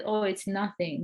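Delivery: imitating a kind stranger, mildly understated; a touch of kindly dismissal; retold kindly reassurance. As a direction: gently wave away an apology. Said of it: "he was so kindly".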